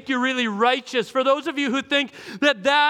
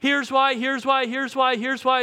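boastful big shots; 3 semitones higher than usual. Retold or imitated. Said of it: "and they're saying".

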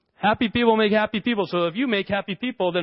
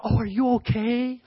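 higher, cooing mock-worried daddy; doting concern; 4 semitones higher than usual. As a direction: fuss over a little child. Doting father after small fall.

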